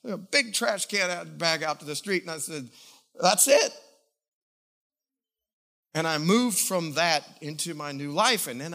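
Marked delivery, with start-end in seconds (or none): 3.2-3.7 decisive. Retold or imitated. Throwing tapes away decisively.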